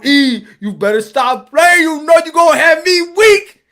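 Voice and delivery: falling for her; excited weakening. Acted. Adam losing resistance to Eve, loud and excited.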